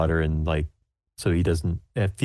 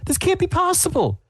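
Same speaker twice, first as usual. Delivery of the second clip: horrified. Acted. Baker hears her family recipe called atrocious, very high horrified. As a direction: shriek in disbelief. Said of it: "she's just horrified".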